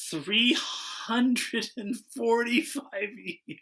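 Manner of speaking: slow deadpan punchline; slow, drawn out. Real, not acted. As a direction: draw out the number slowly.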